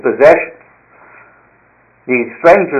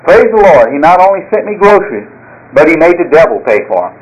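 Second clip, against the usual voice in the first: jubilant praise; 3 semitones higher than usual. Retold or imitated. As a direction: shout it while jumping for joy. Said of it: "jumping up and down and clapping".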